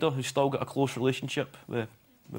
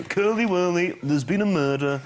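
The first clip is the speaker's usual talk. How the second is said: put-on broad Glaswegian accent, laughing; 2 semitones higher than usual. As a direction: put on a Glasgow detective's accent. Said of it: "Can you say it in a Glaswegian accent?".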